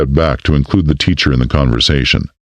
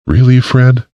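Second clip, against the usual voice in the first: higher, louder mock rebuke; chiding; 8 semitones higher, 3 dB louder than usual. A narrator's reading. Mayor chiding the florist's husband, mock rebuke. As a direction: tease him for the question.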